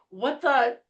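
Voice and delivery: high, drawn-out incredulous question; retold disbelief. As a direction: stretch it out, appalled, with a laugh breaking in. Retold shocked reaction to the seller.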